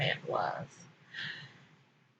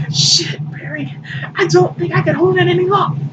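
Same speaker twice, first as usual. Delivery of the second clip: higher and fast, urgent and strained; rushing, barely holding on; strained Undoom; 10 semitones higher, faster than usual. Acted. Undoom tells Bering he can't hold on, strained and rushed. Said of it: "try and fail to imitate".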